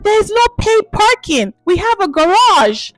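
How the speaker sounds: shocked lady. Retold or imitated. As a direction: blurt it out in shock. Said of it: "She was so shocked and she was like".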